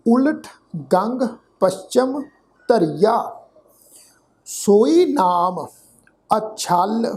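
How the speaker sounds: slow, measured verse recitation; slow sacred verse, word by word; scripture recitation. Shown as a demonstration. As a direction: recite deliberately, drawing out the words.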